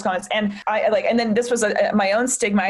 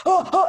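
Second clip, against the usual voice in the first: imitated queasy gasps; 8 semitones higher than usual. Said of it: "they wanna, like, throw up".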